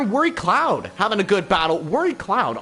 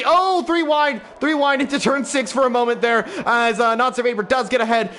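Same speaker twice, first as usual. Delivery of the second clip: excited; 4 semitones higher than usual. Real, not acted. Sudden three-wide battle.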